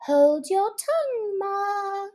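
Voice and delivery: high, curt retort; a little snappish. Acted. Young crab answering her mother, a little snappish. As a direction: brush your mother off. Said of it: "a little snappishly".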